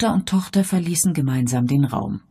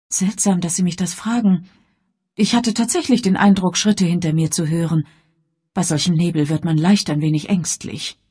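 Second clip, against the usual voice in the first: uneasy daughter Elvira; 4 semitones higher, 4 dB louder than usual. Acted.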